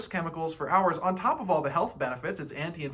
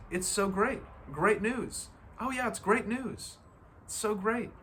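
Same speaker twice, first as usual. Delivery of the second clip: higher, bright overly pleased replies; cheerful brush-off; 4 semitones higher than usual. Shown as a demonstration. Answering bad news by calling it wonderful, mock delight. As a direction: gush about it like it's great news. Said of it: "is to say".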